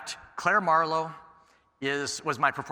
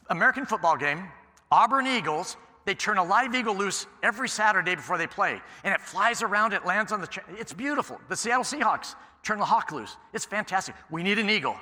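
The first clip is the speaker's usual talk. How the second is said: enthusiastic pitch; 5 semitones higher than usual. Retold or imitated. Retelling his enthusiastic eagle pitch.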